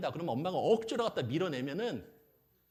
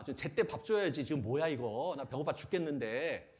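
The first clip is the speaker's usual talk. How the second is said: mock baby tantrum, mildly worked up. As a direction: grumble indignantly as a hungry baby. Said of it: "성깔 났다 이거야". (성깔 난 아기 흉내로 투덜대듯)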